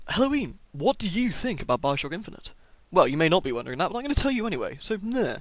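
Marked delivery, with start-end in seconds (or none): 0.1-2.5 high, lightly voiced curious viewer; a hint of a nosy viewer; imagined viewer question. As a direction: pitch up as an eager fan asking. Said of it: "You may be wondering".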